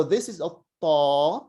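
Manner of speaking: ta with a heavy, hollow t; Arabic ta. Shown as a demonstration. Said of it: "which is very different from a ta".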